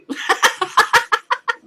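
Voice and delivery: shrill burst of mocking laughter; high mocking laugh. Real, not acted. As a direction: laugh loud and high at them. Laughing at the claim.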